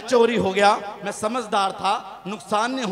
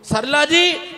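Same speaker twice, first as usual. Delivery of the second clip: shouted name, a bit higher; calling out; 4 semitones higher, 4 dB louder, much slower than usual. Real, not acted. Comedian calling out to a woman in the audience, shouting. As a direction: call across the hall.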